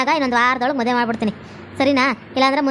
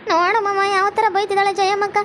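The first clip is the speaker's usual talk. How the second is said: lightly voiced young woman, higher, complaining; whiny young bride; 4 semitones higher than usual. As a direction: tattle on the mother-in-law in a higher, whiny voice.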